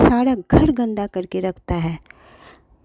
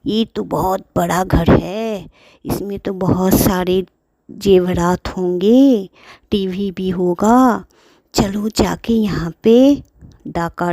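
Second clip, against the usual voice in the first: thief scheming. Acted. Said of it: "चोर ने सोचा".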